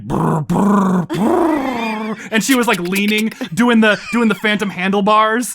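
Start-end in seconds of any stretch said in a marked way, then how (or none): 0.0-2.2 lip-buzzed engine sound; motorcycle noise. Retold or imitated. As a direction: buzz the lips like a motorbike. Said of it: "if she was like".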